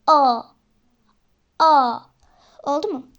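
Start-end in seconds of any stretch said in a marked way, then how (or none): 0.1-2.0 "A" with the mouth open as for A, vowel between A and O. Shown as a demonstration. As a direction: say "A" halfway between A and O. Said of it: "Mesela şu".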